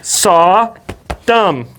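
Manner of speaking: "Sodom" split into two long syllables; careful pronunciation. Shown as a demonstration. Co-host modelling "Sodom" slowly, syllable by syllable. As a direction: say "Sodom" as SAW... DUM.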